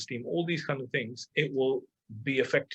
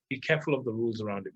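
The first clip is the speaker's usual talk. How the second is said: fast, quieter echo of "Be careful of the rules around it"; quick repeat; 3 semitones lower, 3 dB quieter, faster than usual. Shown as a demonstration. Coach repeating his warning to listeners, fast and quieter. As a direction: rattle the warning back quickly as an aside. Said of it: "But I would say be careful".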